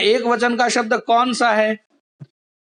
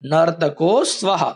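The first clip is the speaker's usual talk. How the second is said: slow dictation; 3 semitones lower, slower than usual. Shown as a demonstration. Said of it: "लिख दीजिए".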